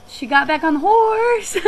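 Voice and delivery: slow, half-crying, half-laughing reply; telling the parents with a catch of tears; teary laughing answer. Retold or imitated. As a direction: let relief crack the words.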